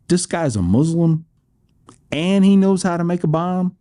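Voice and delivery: a hammed-up gasp of alarm at the news; mock alarm. Audience member retold alarmed.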